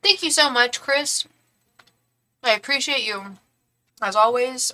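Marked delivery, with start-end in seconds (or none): 2.4-4.7 talking while chewing food; chewing noisily. Real, not acted. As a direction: say it with a mouthful. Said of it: "I'm sorry I'm eating".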